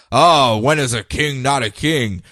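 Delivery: haughty villain. Retold or imitated. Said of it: "he comes in all haughty".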